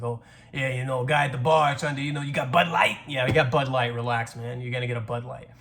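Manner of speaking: lightly mocked Queens accent; Queens bar guy. Making fun of a guy at the bar, light Queens accent. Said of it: "I make fun of that guy".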